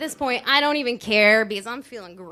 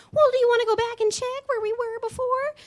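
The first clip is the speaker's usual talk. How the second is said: friend's voice; 12 semitones higher, faster than usual. Retold or imitated. Friend voiced in high pitch.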